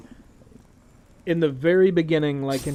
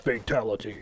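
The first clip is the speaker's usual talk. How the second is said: deep fight announcer call; low arcade announcer; 6 semitones lower, 3 dB quieter than usual. Pretend. Mortal Kombat announcer imitation.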